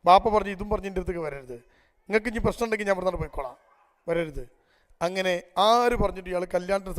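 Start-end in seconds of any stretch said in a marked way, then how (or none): 0.6-4.4 stern refusal. Retold or imitated. Father refuses son's marriage request.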